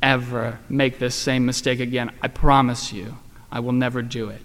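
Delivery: understated tearful daughter's apology. Retold or imitated. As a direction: retell her remorseful promise gently, not truly crying. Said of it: "she started crying, and she said".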